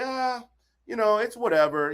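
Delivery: mock bored, yawned out; bored yawning mock. Showing listeners a lazy affirmation, bored. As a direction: toss it off with a yawn. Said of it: "You yawn, you know, you yawn".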